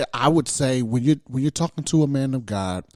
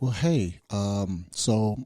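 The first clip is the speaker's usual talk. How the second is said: easy, halting greeting with pauses; slower first-meeting talk; 3 semitones lower, 5 dB quieter than usual. Shown as a demonstration. Man greeting a lady he just met, slower talk. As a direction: take it slower, leaving gaps between phrases. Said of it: "I generally talk slower".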